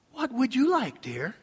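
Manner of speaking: mild tender husbandly question; gentle husband. Retold or imitated. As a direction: ask your wife sweetly. Acting gentle question to wife.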